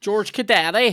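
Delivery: mock terrace call; terrace-style shout. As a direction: belt out the player's name like a fan. Bursts into football rhyme about player.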